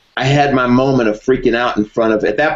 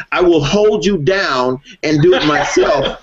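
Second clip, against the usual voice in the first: laughing inner thought; 4 semitones higher than usual. Retold or imitated. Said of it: "inside, I was thinking".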